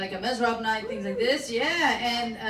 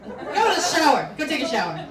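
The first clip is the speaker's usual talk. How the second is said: disgusted; 5 semitones higher, 7 dB louder than usual. Retold or imitated. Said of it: "And I was like".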